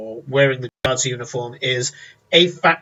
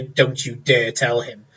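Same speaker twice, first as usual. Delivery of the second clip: silent warning; 3 semitones lower, slower than usual. Acted. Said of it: "as if to say".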